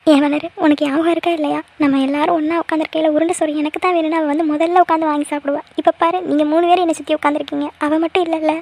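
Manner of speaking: mildly weepy, aching for someone absent; understated tearful lament. Acted. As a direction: reminisce with a touch of tears. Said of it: "அண்ணி, அழாதீங்க அண்ணி".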